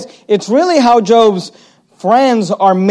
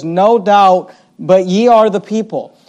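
sarcastic. Shown as a demonstration. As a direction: hand them a dry, sarcastic compliment. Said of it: "it's a sarcastic, uh, sort of, uh, tone".

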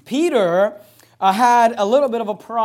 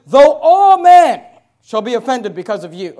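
Peter's proud vow, much louder; boastful declaration; 2 semitones higher, 10 dB louder than usual. Acted. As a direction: proclaim it over the congregation. Preacher voicing boastful Peter.

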